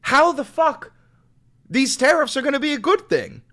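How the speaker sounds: loud, high-pitched indignant demand; real outrage, voice pushed up and loud; exasperated challenge. Real, not acted. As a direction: throw it out as an angry challenge. Heated challenge over the tariffs.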